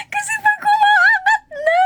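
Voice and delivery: high, crying imitation of a terrified rider; mock scared wail. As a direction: wail as the ride lifts. (kunwaring umiiyak sa takot)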